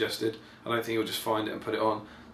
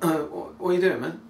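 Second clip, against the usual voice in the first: high, louder mock protest; Bard; 7 semitones higher, 4 dB louder than usual. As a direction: play him put out and incredulous, pitched up. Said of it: "Bard's all like".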